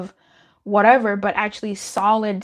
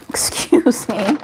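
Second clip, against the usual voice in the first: a breathy, startled whisper; 3 dB louder, slower than usual. Real, not acted. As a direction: hush it out in surprise. Startled by something on screen.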